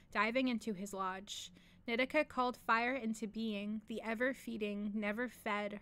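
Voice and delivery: loud, slow, emphatic declaration; shouted. A narrator's reading. Dead-alive creature defying the apprentice, loud shout. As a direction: shout it out, drawing each word out. Reads a story aloud.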